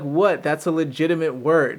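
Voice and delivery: mock defensive. To teasing friends over a slang word, mildly mock defensive.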